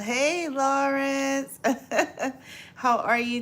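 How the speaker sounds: high, slow, sing-song hello; excited greeting. Real, not acted. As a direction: stretch the greeting out brightly. Greeting viewer in livestream.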